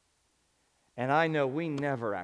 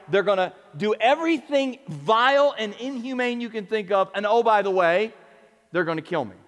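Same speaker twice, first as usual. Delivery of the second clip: mock Jesus announcing; 5 semitones higher, 6 dB louder than usual. Preacher voicing Jesus, animated.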